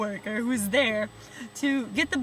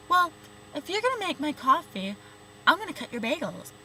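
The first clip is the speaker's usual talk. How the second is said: mock coworker; 5 semitones higher than usual. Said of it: "she even talked like that".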